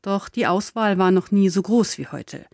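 ordinary talk

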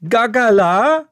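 dad miming a chicken for the waitress; flapping chicken hint. Acted. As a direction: play the chicken while asking. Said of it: "wedelt damit auf und ab".

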